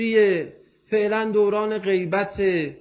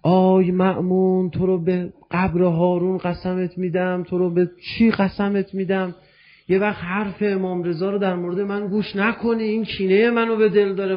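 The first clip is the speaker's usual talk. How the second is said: retold outcry, only mildly raised; mock desperate cry. Jaludi begs Ma'mun not to listen to the Imam, mock desperate cry. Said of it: "برگشت جلودی داد زد".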